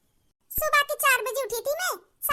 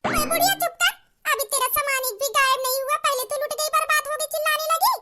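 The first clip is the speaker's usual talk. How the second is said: sharp scolding; 2 semitones higher than usual. Acted. Bahu scolds wailing mother-in-law.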